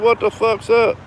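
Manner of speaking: high imitation of a baffled challenger; incredulous retold demand. Retold player demands an explanation.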